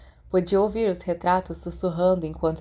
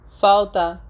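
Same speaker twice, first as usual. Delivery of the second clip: happy cheer; 3 semitones higher, 7 dB louder than usual. Acted. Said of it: "comemorou alegremente".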